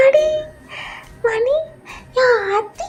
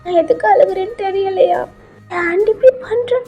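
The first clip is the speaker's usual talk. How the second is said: high, plaintive weepy voice; weepy granny, pitched high; tearful grandmother; 8 semitones higher than usual. Acted. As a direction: reproach her through acted tears. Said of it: "எதுக்கு அழுதுட்டு இருக்கீங்க".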